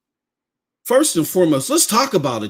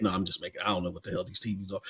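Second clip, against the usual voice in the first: much softer and lower, thrown away; muttered aside; 8 semitones lower, 15 dB quieter, faster than usual. Real, not acted. Host admitting he made up TV names, muttered aside. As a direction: drop to an offhand murmur.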